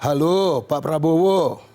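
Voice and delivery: lightly voiced Jokowi, a touch nervous. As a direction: greet him nervously, like a tense first call. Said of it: "Pak Jokowi ... nelpon gitu".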